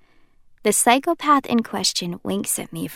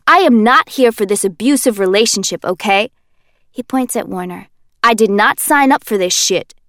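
Kenji, indignant; 2 semitones higher, 6 dB louder than usual. Acted. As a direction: play the victim, loudly.

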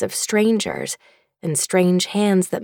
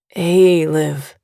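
gentle; 5 semitones lower, 4 dB louder than usual. A narrator's reading. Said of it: "another voice says gently".

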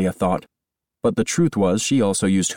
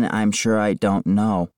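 plain quoting back; slower than usual. Retold or imitated. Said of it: "what does that mean".

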